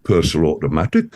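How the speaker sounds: quick, low Geordie "Personal automatic"; Geordie phrase. Shown as a demonstration. Guest repeating the phrase on request, fast and low. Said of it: "one more time?".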